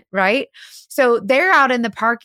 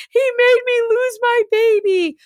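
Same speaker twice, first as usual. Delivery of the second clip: acted whiny blame; 11 semitones higher than usual. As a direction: whine it like the lying girlfriend. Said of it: "she goes".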